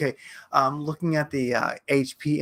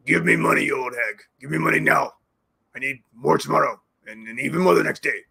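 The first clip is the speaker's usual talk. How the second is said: hammed-up greedy plea for more; mock demanding. Mock Zelensky asking Yellen for more money, put-on voice. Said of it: "mock Zelensky again".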